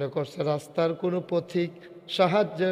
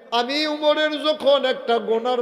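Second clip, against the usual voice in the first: raised, higher sermon chant; impassioned preaching; 8 semitones higher, 7 dB louder than usual. Acted. Preacher voices Umar setting his condition, raised and impassioned. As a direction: lift the voice in a plea.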